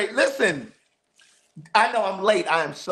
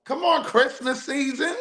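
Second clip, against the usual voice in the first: Paris quote; 4 semitones higher than usual. Retold or imitated. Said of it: "Y'all know what this is from. That's from Paris".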